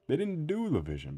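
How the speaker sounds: high, loud exasperated outburst; emphatic rant. Real, not acted. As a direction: throw up your hands at it. Ranting about the new movie.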